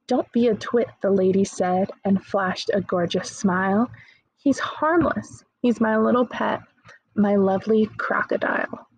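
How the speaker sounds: lively poem reading to a class; teacher reading a funny poem aloud. Acted. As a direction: tell it like a storybook for kids.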